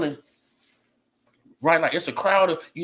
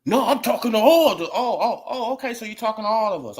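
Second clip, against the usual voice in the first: higher, laughing reenactment; laughing through it; 5 semitones higher, 3 dB louder than usual. Acted. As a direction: act out both sides while cracking up. Acting out the exchange, laughing.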